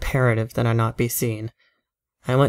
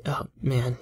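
whisper; 6 dB quieter than usual. Acted. Feigned worry, low voice.

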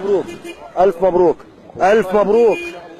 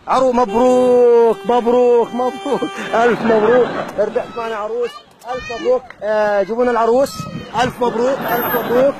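shrieking jackpot winner; 6 semitones higher than usual. Acted. Announces prize, cheering winner.

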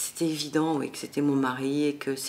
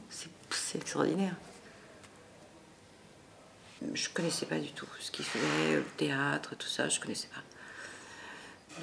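hushed confiding whisper; 8 dB quieter than usual. Real, not acted. Telling the interviewer how new theatre was to her, whispered. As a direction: whisper it as a confession.

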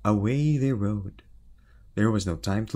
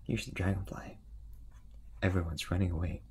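whisper; 7 dB quieter, faster than usual. A narrator's reading. Storyteller whispers to listener.

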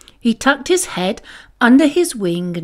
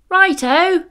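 high sheep bleat; 8 semitones higher, 3 dB louder than usual. A narrator's reading. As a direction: answer like a cheerful ewe. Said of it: "bleated Bertha".

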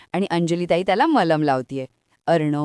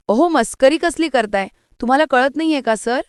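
high-pitched, mildly irritated protest; slightly annoyed; 7 semitones higher than usual. A narrator's reading. Ishwari objecting to his joking, slightly annoyed. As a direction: chide him with a touch of annoyance. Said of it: "ईश्वरी थोडी चिडून बोलते".

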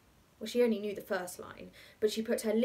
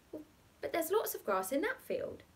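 put-on protesting boy; 8 semitones higher than usual. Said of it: "protested the boy".

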